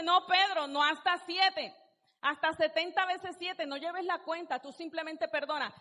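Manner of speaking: patient teacher correcting a pupil; Jesus gently correcting. Retold or imitated. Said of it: "Jesús le dice".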